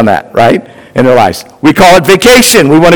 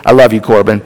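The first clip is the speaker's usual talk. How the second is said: laughing; 6 semitones lower, faster than usual. Real, not acted. Teasing aside to son in audience.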